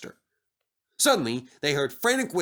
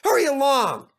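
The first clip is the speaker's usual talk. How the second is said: high, louder bossy little engine; lordly order; 12 semitones higher, 6 dB louder than usual. Acted. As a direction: order them about like a lord. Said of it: "in a lordly way".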